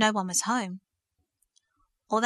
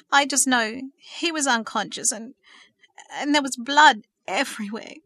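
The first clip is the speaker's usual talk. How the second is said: distraught; 3 semitones higher, 5 dB louder than usual. Acted. Thomas recounting the beating, distraught.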